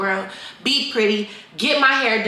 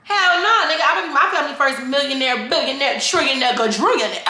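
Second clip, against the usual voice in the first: hyped correction; 4 semitones higher than usual. Real, not acted. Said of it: "Fuck that".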